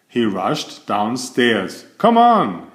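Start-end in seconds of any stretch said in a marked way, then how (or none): 2.0-2.7 high, louder call over the shoulder. Acted. Mister Silly calling his friend outside, high and louder. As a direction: call him along eagerly. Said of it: "he called".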